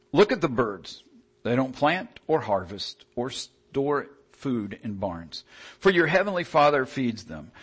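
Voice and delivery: measured sermon reading of the Gospel; scripture reading. Acted. Reads Matthew six aloud.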